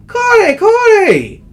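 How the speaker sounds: high, loud rough shout; rough exclamation. Acted. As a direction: bark at him roughly. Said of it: "roughly exclaimed the soba man".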